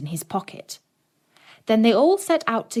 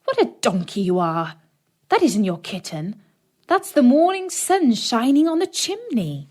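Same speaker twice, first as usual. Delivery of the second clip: louder, rising to a high scolding cry; scolding stepmother; 4 semitones higher, 4 dB louder than usual. Acted. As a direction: scold the boy, climbing high. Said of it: "The woman exclaimed".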